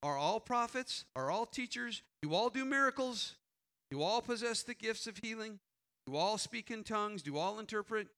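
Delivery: rising rhetorical questions read aloud; scripture read to the congregation, questions stressed. Acted. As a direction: read the verses like a preacher building a case. Reads the scripture passage aloud.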